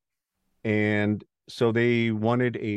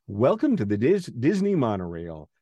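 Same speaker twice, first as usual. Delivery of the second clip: friendly tour guide; 4 semitones higher than usual. Retold or imitated. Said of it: "this guy's sort of doing a friendly tour".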